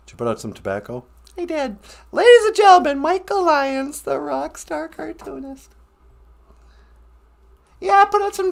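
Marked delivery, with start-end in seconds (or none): 2.1-5.7 announcer. Acted. Introducing a guest on stage.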